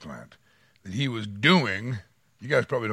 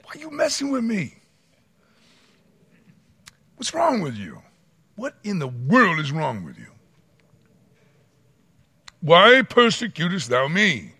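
mock exasperation; 7 semitones higher, 6 dB louder than usual. God's question repeated in mock.

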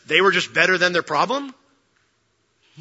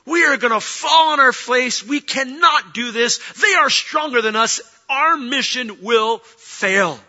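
high, emphatic naysaying, slowing at the end; dissenting spies; 3 semitones higher, slower than usual. Acted. Other spies contradicting Caleb, high and emphatic protest. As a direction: talk the crowd out of it forcefully. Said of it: "they look around and go".

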